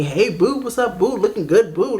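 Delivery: lilting imitation of a flirty greeting; mock sweet-talk.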